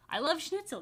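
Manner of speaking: mock character voice. Character voiced in read-aloud story.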